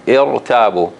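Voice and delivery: irtabu with a heavy, held r; strong ra. Shown as a demonstration. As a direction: model irtabu with a full ra after the i. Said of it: "it is supposed to be".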